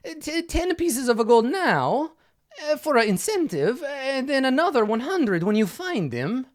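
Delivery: a hint of a fussy, flustered patron; quest giver voice.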